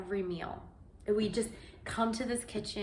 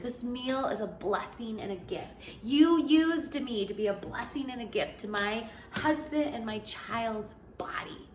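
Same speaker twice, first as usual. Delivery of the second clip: prayer; 2 semitones higher than usual. Acted. Prayer continues to a whisper.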